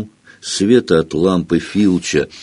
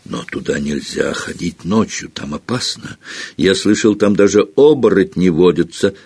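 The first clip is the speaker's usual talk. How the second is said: unsure. Acted. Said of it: "голос у него был совсем не такой самоуверенный".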